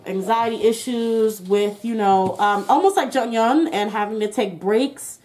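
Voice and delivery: talking through a face mask; muffled, mask over mouth. Real, not acted. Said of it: "I have a mask on, that's why I sound muffled".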